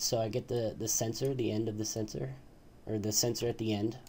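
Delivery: tripping over the words, restarting and correcting; stumble, repeat and rephrase as you explain; stumbling over words. Real, not acted. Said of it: "I'm stuttering a little bit".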